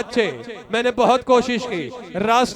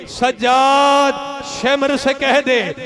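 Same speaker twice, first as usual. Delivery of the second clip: put-on stretched, louder lament of a child; drawn-out pleading cry; 2 semitones higher, 4 dB louder, much slower than usual. Little sister calling to her brother, wailing. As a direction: draw the name out as a wailing plea. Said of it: "मेरी बहन ने वहां फरमाइश की".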